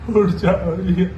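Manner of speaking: low, sorrowful begging; acted low-voiced grief; grieving plea. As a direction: plead low, as if losing hope. Grieving man begs Riya to rise.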